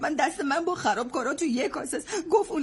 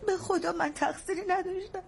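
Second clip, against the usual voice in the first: tearful explanation; 3 dB quieter than usual. Acted. Confessing through tears.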